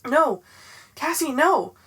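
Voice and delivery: loud frantic scream of warning. A narrator's reading. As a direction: scream to stop her. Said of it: "a voice screamed in my head".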